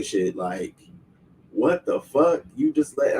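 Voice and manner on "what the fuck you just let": high-pitched retold outrage; indignant, cut-off protest; getting mad. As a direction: sputter in mock disbelief, voice shooting up. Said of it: "I'm getting mad".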